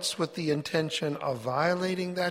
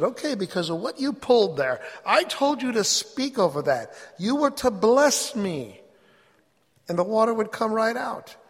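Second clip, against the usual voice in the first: Yahweh's rebuke; 5 semitones higher, 3 dB louder than usual. Retold or imitated.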